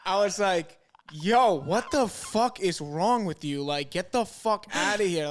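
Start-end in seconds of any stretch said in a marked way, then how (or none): 1.1-5.3 slow, louder mock outrage; half-acted telling-off of a creep; retold angry snap. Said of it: "I get so pissed off".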